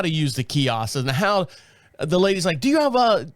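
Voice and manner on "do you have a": imitated British airline lady, higher; lightly British desk agent; British accent. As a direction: put on a British clerk's accent. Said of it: "'cause she's British".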